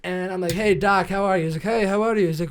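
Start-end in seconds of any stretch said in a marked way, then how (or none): 1.6-2.3 put-on loud, higher Russian-accented doctor; imitated Russian-accent greeting. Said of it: "like, Russian accent".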